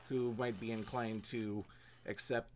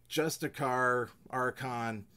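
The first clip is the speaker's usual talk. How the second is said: emphatic; 3 semitones higher, 6 dB louder, slower than usual. Acted. Listing feared enforcers.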